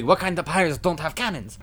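high-pitched goofy stooge voice; comic stooge echo. Acted. Larry turning to Curly in disbelief, high stooge voice. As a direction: echo the outrage as a cartoonish sidekick. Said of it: "Larry looks over at Curly".

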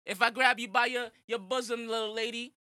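lightly voiced smarmy Italian excuse; mock sleazy Italian guy. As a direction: play the creep who blames his heritage. Mock creep excusing groping.

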